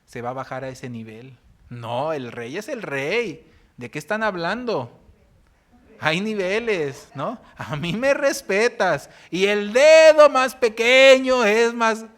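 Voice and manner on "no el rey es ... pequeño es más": slow, swelling haughty king voice, louder to the end; a pompous king demanding respect; arrogant king. Retold or imitated. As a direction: lord it over them with disdain.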